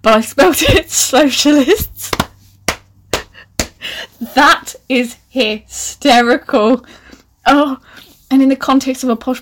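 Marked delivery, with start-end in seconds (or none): 0.0-7.8 loud, high, slow through laughter; laughing. Real, not acted. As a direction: barely get it out for laughing. Laughing at own typo.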